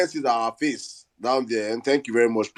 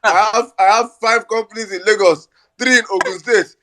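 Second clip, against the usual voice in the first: mock boasting politician; 5 semitones higher than usual.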